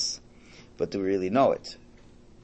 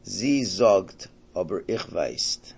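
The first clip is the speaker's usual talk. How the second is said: Yiddish; much slower than usual. Retold or imitated. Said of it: "So he says".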